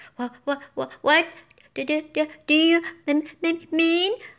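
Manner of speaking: stuttering speech. Reading a first-person story, the scared narrator answers a question, stammering. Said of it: "I stammered".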